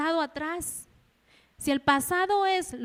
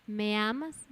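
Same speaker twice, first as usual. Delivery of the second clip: the Lord asking; 5 semitones lower, slower than usual. Acted. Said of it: "así dice el Señor con nosotros".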